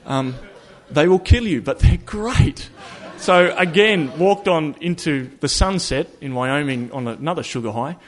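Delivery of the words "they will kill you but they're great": laughing. Real, not acted. Joking about Reese cups.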